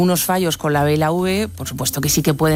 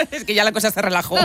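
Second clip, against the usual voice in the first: laughing; 4 semitones higher, faster than usual. Real, not acted. Joking, laugh heard on line.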